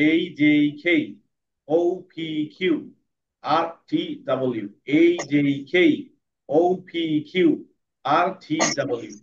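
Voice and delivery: letters read slowly with pauses. Shown as a demonstration. Teacher demonstrating slow reading to class. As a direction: read each group slowly. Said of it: "প্রথমে slow পড়বো".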